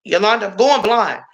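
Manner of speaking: ex-husband pleading he is going blind; mock whiny ex. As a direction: drag out the self-pity.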